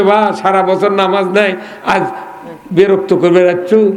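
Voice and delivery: plain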